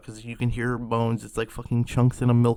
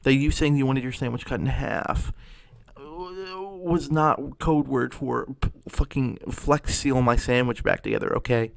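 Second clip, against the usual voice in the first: held-back mock yell, a little louder; exasperated yell; 4 dB louder than usual. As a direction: rant in exasperation at the customer. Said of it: "I wanted to yell at her".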